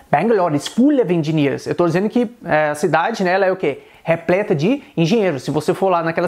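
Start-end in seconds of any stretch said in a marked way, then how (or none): 0.1-1.7 "full" with a clear Indian L; Indian-accented English example sentence. Shown as a demonstration. Teacher demonstrating the L in Indian English, Indian accent.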